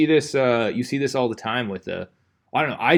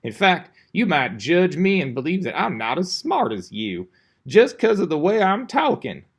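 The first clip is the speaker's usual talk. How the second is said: sloppy, lazy talk; 2 semitones higher than usual. Shown as a demonstration. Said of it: "start talking like this".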